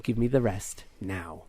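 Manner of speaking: measured, faintly sultry demand; lightly sultry. Acted. Android demanding the rest of her gold, lightly sultry. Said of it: "I'll do a sultry voice".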